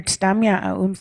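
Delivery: Stamiat Aums said slowly with a rise on Stamiat; Stamiat pronunciation. Shown as a demonstration. Teaching visitors the local word, careful pronunciation. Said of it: "how we say that here".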